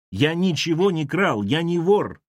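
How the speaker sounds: insist, shouting. A narrator's reading. Lavrovsky shouting again he is no thief. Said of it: "Именно он крикнул".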